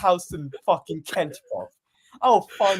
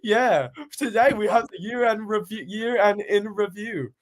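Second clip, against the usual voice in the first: podcast intro; 3 semitones higher than usual. Pretend. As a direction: open the show like Kieran. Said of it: "Actually, I'll do it right now".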